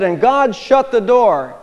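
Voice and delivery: slow, dramatic evangelist line; mock preacher. Retelling a flamboyant evangelist, slow dramatic line. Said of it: "he said".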